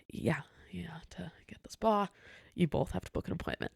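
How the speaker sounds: hesitant start, then hushed and half-whispered; weary patient reply. Retold or imitated. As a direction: explain it carefully under your breath. Weary manager answers difficult guest.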